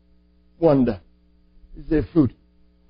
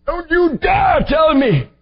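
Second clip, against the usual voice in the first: louder, shouted rebuke; 4 dB louder than usual. Retold or imitated. Father rebuking his son, loud angry shout. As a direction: shout it down, don't you dare.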